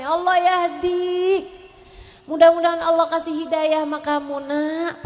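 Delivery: gentle prayer. Retold or imitated. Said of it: "mereka doa gini".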